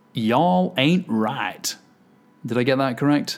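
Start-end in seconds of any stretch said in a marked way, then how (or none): 0.2-1.8 bad put-on Southern American accent. Giving a shout-out to a new patron supporter: terrible put-on Southern accent. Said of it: "Brace yourself for a terrible accent. ... I've tried to get a southern accent into there".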